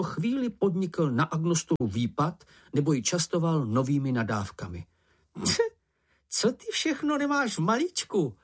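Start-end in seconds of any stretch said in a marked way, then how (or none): 6.3-8.4 much higher squeaky voice full of wonder; admiring Sniff. A narrator's reading. Sniff calls out to Moomin in admiration, high and squeaky. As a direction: gush in awe at his swearing. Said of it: "volal Čenich s obdivem".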